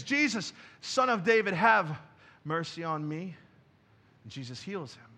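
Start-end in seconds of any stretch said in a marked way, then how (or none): 0.0-3.4 raised voice easing off toward the end; preacher's voicing of a beggar's plea; calling out. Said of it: "Blind Bartimaeus calls out to Jesus".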